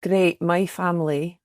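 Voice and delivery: tentative Scottish accent, taken slowly; attempted Scottish accent. Shown as a demonstration. Guest attempts Scottish on the host's request, tentative accent. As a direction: try out a hesitant Scottish accent. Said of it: "give me a Scottish accent then".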